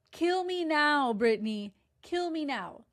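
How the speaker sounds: hammed-up, high and loud plea; dramatic kill me now; mock despair. Real, not acted. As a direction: play dying of boredom. Mock despair over Brittany.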